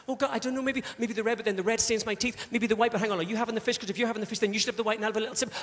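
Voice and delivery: mildly hammed-up dithering over a choice. Woman choosing wine at a restaurant, dithering. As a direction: waver between options in a run-on stream.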